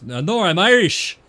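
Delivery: high, loud mock protest; indignant retort. Trucker retelling his father's Irish man objecting, loud and high. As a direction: bark back in mock offence. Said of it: "And he goes".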